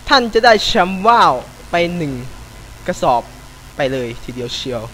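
3 beg the heavens like a pious supplicant; 4 a gamer prays to god Joke, mock-solemn pleading; 1 mock prayer.

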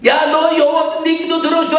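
high loud mock shout; shouted blessing. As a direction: bellow the blessing. (엘리가 한나에게 크게 외치는 축복)

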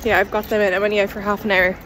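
talking with teeth strips in; words slightly blocked by strips; with whitening tray. Real, not acted. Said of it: "I've got my teeth whitening strips in".

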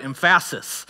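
"emphasis" with stress shifted onto a drawn "PHAS"; joke mispronunciation. Shown as a demonstration. Preacher joking to congregation about getting the right emphasis, joke mispronunciation. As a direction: say "emphasis" as em-FASS-is, stressing the middle syllable. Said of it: "that's humor, nobody laughed".

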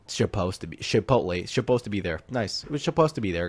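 "supposed" said with a sh sound at the start; playful mispronunciation. Pretend. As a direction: slur "supposed" into shuh-POSED, like "Chipotle". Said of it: "that's how I'm supposed to talk. I, I say chipotle".

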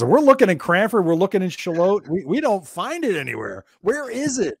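imitating confused listeners; puzzled fans. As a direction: plead like lost fans.

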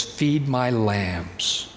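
Jesus gently giving Peter his task; softened, tender. Retold or imitated. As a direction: ease it down gently. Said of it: "Jesus softens it a bit".

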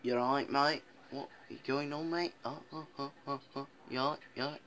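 put-on London greeting accent; casual imitation of a London accent. Shown as a demonstration.

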